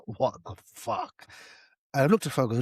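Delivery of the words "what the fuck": stunned disbelief. Retold or imitated. Stoned, staring at flashing telly.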